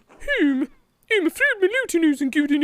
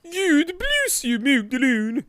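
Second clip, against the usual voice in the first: nun voice. Acted. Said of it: "my new voice for people".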